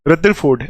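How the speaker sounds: "रदरफोर्ड" with a da sound for th; "रदरफोर्ड" as "rudda-ford"; foreign pronunciation. Shown as a demonstration. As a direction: say "रदरफोर्ड" the American way, middle r weakened. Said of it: "ऐसे करके पढ़ते हैं बाहर वाली countries".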